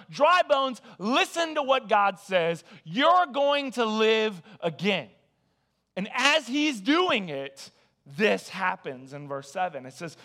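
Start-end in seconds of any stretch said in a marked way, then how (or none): 0.1-5.1 proclaiming to bones. Acted. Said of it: "I want you to tell them".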